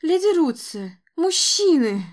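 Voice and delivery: calling out. Acted. Calling for help.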